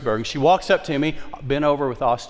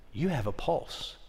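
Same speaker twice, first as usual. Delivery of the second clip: hushed; 10 dB quieter than usual. Retold or imitated. Gently telling old lady.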